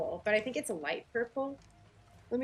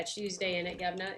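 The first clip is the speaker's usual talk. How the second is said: lightly put-on British slang; mock British accent. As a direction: toss off a teasing British accent. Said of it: "kinda making fun of their accent".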